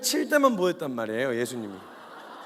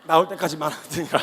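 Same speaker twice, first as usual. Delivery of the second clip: archaic scripture tone; 4 dB louder than usual. Shown as a demonstration. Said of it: "하시니라".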